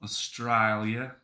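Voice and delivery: slow, drawn-out Australian pronunciation; put-on Australian accent. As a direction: say it like an Australian, rising at the end. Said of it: "do an Australian accent".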